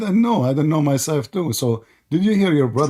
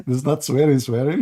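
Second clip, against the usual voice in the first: amused echo. Real, not acted. Echoes guest's phrase, laughing.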